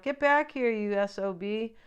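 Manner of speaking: imitated outcry, easing off at the end; mock crying out. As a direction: call him back, only half in earnest. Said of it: "she's crying out".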